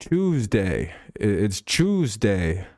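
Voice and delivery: "Tuesday" starting with a British "chooz" sound; mock British pronunciation. Shown as a demonstration. Streamer imitating Brits, "Tuesday" pronounced CHOOZ-day. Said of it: "'Cause their word, their word Tuesday".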